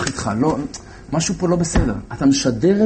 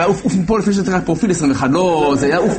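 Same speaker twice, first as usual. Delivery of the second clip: angry; 4 semitones higher than usual. Retold or imitated. Commander throws him out.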